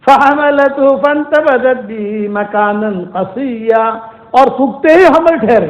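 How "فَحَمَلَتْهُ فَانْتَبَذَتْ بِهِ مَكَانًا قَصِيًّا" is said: melodic chanted tilawat of the verse; Quran recitation. Acted. Preacher chanting the verse to the congregation, melodic recitation.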